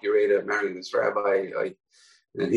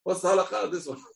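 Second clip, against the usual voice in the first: the disguised rabbi shouting up to Akiva in jail; hawker shouting; 10 semitones higher than usual. Acted. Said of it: "he starts screaming again".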